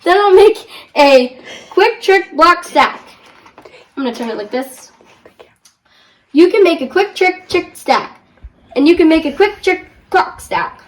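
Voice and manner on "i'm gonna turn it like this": whispered aside; a whispered note while turning the book. Real, not acted. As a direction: whisper it under your breath.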